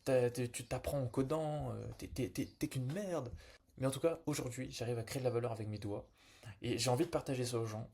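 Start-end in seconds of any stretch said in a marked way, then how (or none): 0.0-3.3 lightly mimicked dev snob; mocking purist. Purists dismissing a self-taught junior, lightly mocked. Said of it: "tous les puristes de dev qui vont dire".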